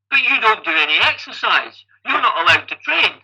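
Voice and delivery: mild mock disbelief with swooping pitch; incredulous protest. Onlookers react to an untrained winner, mildly incredulous imitation. Acted astonished reaction of everyone.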